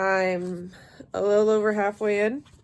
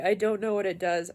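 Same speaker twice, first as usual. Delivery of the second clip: yawning. Real, not acted. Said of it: "I'm really sorry I'm yawning".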